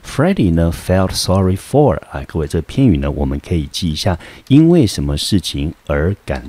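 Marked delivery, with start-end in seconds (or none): 0.0-2.0 slowly repeats felt sorry for; slow reading. Shown as a demonstration. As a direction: slowly read the phrase. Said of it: "我们看这一句".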